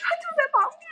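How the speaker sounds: frantic whispered warning; urgent whisper. Retold or imitated. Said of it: "他说".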